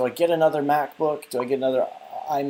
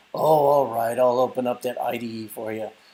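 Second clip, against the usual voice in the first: put-on grumbling, groaning old man voice; 3 semitones lower than usual. Speaker imitates their MacBook opening an application, in a groaning MacBook voice. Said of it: "it groans at me".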